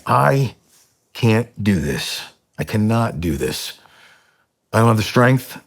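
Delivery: retold prayer of a man at his limit; understated desperation, surging on key words; desperate plea. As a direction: plead with God, slowing on the refusals. Retold desperate prayer on garage floor.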